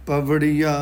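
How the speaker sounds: ਪਵੜੀਆ said simply and at ease; simple, relaxed reading. Shown as a demonstration. Teacher models the word for readers, simple and relaxed ਪਵੜੀਆ. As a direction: say ਪਵੜੀਆ plainly, without strain. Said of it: "ਬਿਲਕੁਲ simple, ਸਾਦਾ, ਆਰਾਮ ਨਾਲ".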